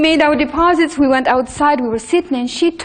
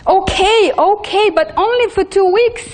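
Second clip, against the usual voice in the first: reluctant agreement; 8 semitones higher, 3 dB louder than usual. Retold or imitated. Husband gives in reluctantly.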